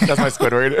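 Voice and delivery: Squidward voice. Pretend. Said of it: "Have a good Squidward".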